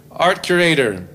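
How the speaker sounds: mock-stately rock star name-drop; pompous announcement. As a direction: announce yourself like royalty. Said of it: "you don't have to say it like that".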